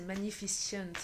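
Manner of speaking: English word in a thick French accent; bad English accent. Real, not acted. French speaker naming a song, bad English accent. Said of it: "j'ai un accent anglais pourri".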